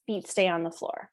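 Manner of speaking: firm, even limit-setting voice; calm but firm. Shown as a demonstration. Parent lifting a child off the coffee table, calm but firm. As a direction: set the limit without escalating. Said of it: "So firm, but making sure that the tone isn't escalated".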